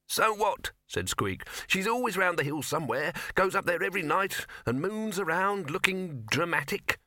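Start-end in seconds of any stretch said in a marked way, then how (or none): 0.1-0.7 high-pitched little mouse voice; dismissive high mouse; mouse character. A narrator's reading. Mouse speaking in dialogue. 1.7-7.0 high-pitched mouse, dismissive; unimpressed high mouse voice; mouse character. A narrator's reading.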